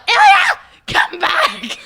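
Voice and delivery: calling a roommate back to the bedroom, loud and playful; yell. Retold or imitated. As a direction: shout after him across the house. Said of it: "I hear David yell".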